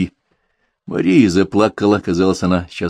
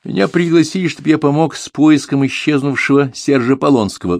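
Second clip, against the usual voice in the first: raised, higher voice, announcing to the room; loud announcement; 8 semitones higher, 4 dB louder than usual. A narrator's reading. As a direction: declare it loudly to everyone. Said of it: "громко объявил Дронго".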